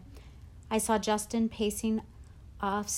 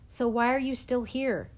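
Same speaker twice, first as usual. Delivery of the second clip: louder, higher, exasperated question; impatient demand; 4 semitones higher, 5 dB louder than usual. A narrator's reading. Teacher to girl claiming sickness, impatient demand. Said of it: "Davenport said to me eagerly".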